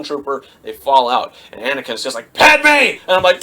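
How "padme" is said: high, loud cry of a name; hammed-up desperate call; mock panicked shout. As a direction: yell it like an overdramatic hero. Acts out Anakin crying out.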